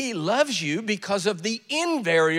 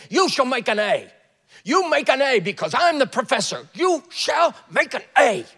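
loud, high, menacing command; hammered-out, shouted professorial decree; psychotic professor; 5 semitones higher, 6 dB louder than usual. Acted. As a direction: order the class like a crazed tyrant. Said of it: "who's not psychotic".

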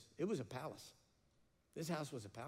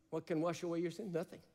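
normal talking voice

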